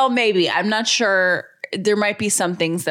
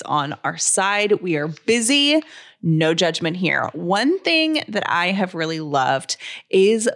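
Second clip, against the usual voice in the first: friendly sponsor read, mom to mom. Acted. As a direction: pitch it like a friend's tip. Reads a sponsor ad.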